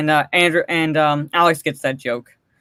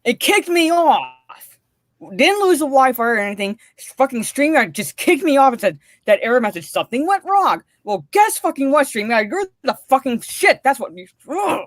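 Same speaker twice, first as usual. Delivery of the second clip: higher-pitched angry rant at the app; 5 semitones higher than usual. Real, not acted. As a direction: rail at the software, voice climbing. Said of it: "Angry Mara".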